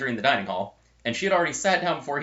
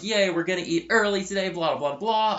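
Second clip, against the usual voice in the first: higher-pitched mocking imitation of eager freshmen; mock excitement; 8 semitones higher than usual. Student mimicking freshmen thrilled to eat early, mock excitement. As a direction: gush it mockingly, trailing into blahs.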